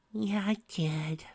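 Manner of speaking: high, slow, voice breaking; choked-up whisper of an answer; broken voice. A narrator's reading. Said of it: "she said in a broken voice".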